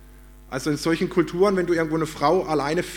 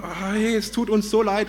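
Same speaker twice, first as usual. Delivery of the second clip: higher-pitched, imitated gushing apology; effusive apology; 4 semitones higher than usual. Attackers now hug the tourist, acted effusive apology. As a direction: play friendly, effusive regret, lightly acted.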